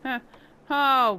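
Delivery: loud startled oh; surprised. Real, not acted. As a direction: caught off guard by what she sees. Sees odd result.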